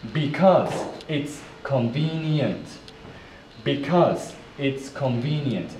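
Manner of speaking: "because it's convenient" in separate, measured chunks; careful model phrase. Shown as a demonstration. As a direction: pause after "because" and "it's" for learners. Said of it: "Let's put it together".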